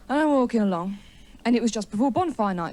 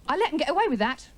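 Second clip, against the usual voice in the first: higher, quicker, indignant repeat; angry brooding; 5 semitones higher, faster than usual. Acted. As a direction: stew over it, pitch jumping up faster. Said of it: "you know when you're angry".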